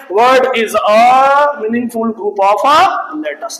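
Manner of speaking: slow, deliberate English for learners; slow dictation. Real, not acted. Teacher defining a word for students, slow dictation. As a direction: stretch the definition out phrase by phrase.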